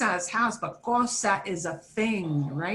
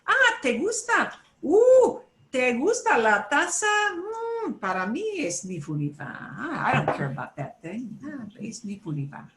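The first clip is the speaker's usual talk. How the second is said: shrugging indifference; 2 semitones higher than usual. Pretend. Teacher playing both sides of a chat, mock indifference. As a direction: ask brightly, then answer with a lowered meh. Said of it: "You might say".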